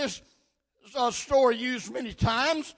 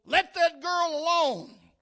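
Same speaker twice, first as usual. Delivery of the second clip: higher-pitched, moderately raised shout; retold shout; 5 semitones higher, 4 dB louder than usual. Preacher quotes a man at a window, mildly shouting. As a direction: call it down like a concerned neighbor. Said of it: "a man's voice shouted down below".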